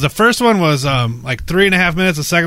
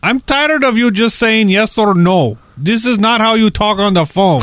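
higher, slower, scolding caller; irritated telemarketer; 6 semitones higher than usual. Retold or imitated. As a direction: lecture him like an annoyed salesman.

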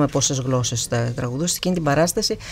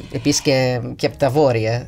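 usual speaking voice

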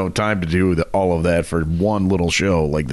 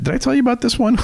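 laughing; much faster than usual. Real, not acted. Laughing mid-question about the book.

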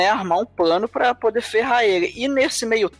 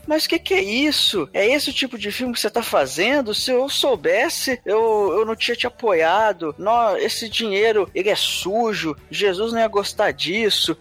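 a hint of an outraged fiancée, pitched up; shocked fiancée; 2 semitones higher than usual. Fiancée catching him, mildly hammed-up outrage. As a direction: playfully scold like a scandalized bride. Fiancée scolding Trey, quoted.

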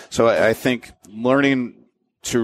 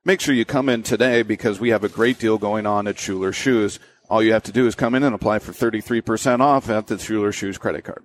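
even, upbeat ad read; live read tone. Shown as a demonstration. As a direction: sell it like a radio spot. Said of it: "that live read tone".

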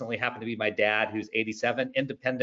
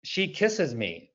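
put-on slow, soft German-accented quote of dad; lightly put-on German accent; 4 dB quieter, much slower than usual. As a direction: imitate an elderly dad's German accent, slowly. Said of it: "thick German accent".

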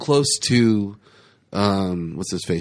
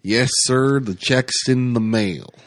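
Jack Napier voice; slower than usual. Retold or imitated. S1 doing the line Napier-style for friends, slow. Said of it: "that's Jack Napier the way you did it".

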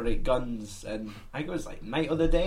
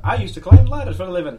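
zombie voice; 3 semitones higher, 10 dB louder, faster than usual. Pretend. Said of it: "maybe it's like".

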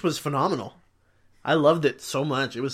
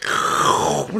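imitated noisy Cheeto crunch; voiceless imitation of loud munching; loud crunching noise; 3 dB louder than usual. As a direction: make a rasping crunch with the mouth. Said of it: "just, like, really loud".

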